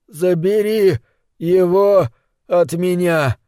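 high, desperate pleading. A narrator's reading. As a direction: beg for release. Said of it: "умолял он".

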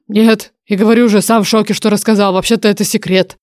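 a hint of a dragon oracle; apologetic dragon oracle. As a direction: apologize as an ancient voice in someone's head. Voices the oracle in narration.

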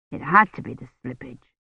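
usual speaking voice

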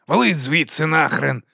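loud angry order, ВАЛИ hit hard, slow; thundered. Acted. Boss throwing the guard out, loud slow thunder. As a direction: throw him out. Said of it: "гримнув Бернард".

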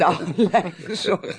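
amused, slow repeat; laughing echo. Acted. The clerk chuckling along at the undertaker title. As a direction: chuckle through the word lijkbezorgd.

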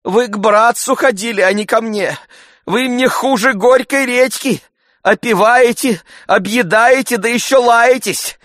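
high, indignant female voice; woman's scolding. A narrator's reading. Agafya Matveevna scolding the freeloading guest, indignant.

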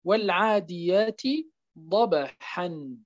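ضبحا ending in a clear "ḥan" with nuun; teacher sounds out ضبحا with the tanween; 1 tanween shown as -an. Shown as a demonstration. Teacher showing ضبحا with nuun ending. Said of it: "مثال".

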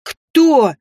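loud growling demand; growled question. A narrator's reading. Mother growls at the relatives, loud and fierce. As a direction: growl it at them. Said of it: "рыкнула я".

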